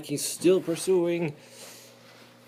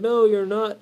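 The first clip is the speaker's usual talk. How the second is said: defiant spider; 9 semitones higher, 10 dB louder than usual. Acted. Spider argues back.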